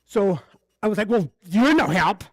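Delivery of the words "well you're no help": slow, emphatic mock indignation; retold anger. Tenant hanging up on Better Business Bureau, mildly angry. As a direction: re-enact an irritated brush-off, drawing it out. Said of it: "So angry".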